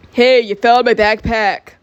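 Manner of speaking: loud, slow protest; put-on annoyed guy; indignant complaint. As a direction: object loudly, stretching the words. Some guy objects.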